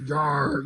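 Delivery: mock dog growl. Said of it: "So the dog growls".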